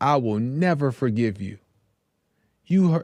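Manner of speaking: put-on tearful, crying delivery. Retelling a father's words to the drunk driver in court: imitating someone crying. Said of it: "he's crying".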